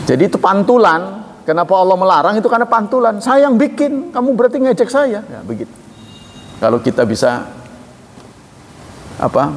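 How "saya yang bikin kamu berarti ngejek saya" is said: higher, firm rebuke; lightly voiced divine reproach; voicing God. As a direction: speak as the maker who is offended.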